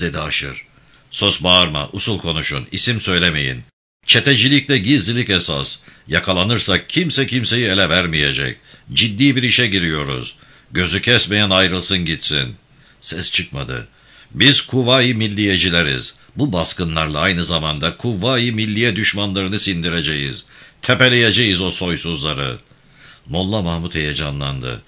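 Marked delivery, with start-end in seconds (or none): 1.1-12.6 a firm, lightly voiced gang chief giving orders; steady commanding tone, barely apart from the narration; commanding leader. İbrahim Bey orders silence. 14.3-22.6 a firm, lightly voiced gang chief giving orders; steady commanding tone, barely apart from the narration; commanding leader. İbrahim Bey speech.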